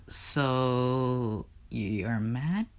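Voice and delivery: timid question. Acted. Persephone timidly asks Hades.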